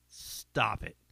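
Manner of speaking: whispered stop it. Pretend. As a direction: breathe it out unvoiced. Whispered repeat.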